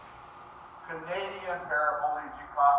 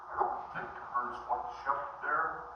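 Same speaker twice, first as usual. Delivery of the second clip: unvoiced, softer sarcastic whisper; mock whisper; 3 semitones lower, 7 dB quieter than usual. Comic whispers back at TV hunters from his couch. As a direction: breathe it back dryly from the couch. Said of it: "I'm sitting at home going".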